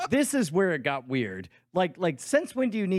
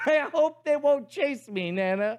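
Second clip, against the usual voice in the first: mock phone confession; 9 semitones higher than usual. Fake caller telling Nana the co-host's worries, mocking. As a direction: parrot the co-host in a raised voice. Mimicking co-host on fake call.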